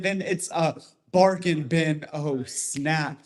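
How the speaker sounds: rhythmic slam poetry delivery; slow, punchy spoken word performance; spoken word poem. Acted. Recites his poem.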